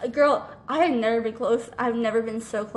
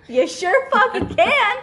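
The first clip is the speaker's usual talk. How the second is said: slow, high, sarcastic drawl; sarcastic yes; 9 semitones higher, 5 dB louder, slower than usual. Retold or imitated. To a friend asking for the couch, slow sarcastic yes. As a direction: lay the sarcasm on thick, slowly.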